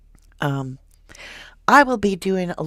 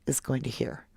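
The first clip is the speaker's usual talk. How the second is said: whisper; 4 semitones lower, 7 dB quieter than usual. Real, not acted. True crime host building suspense.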